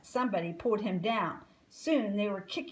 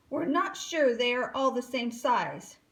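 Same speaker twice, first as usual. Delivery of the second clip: loud, raised shout; 4 semitones higher, 5 dB louder than usual. Acted. Alvin on the table still shouting at the gators. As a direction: keep shouting to the crowd. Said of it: "he shouted".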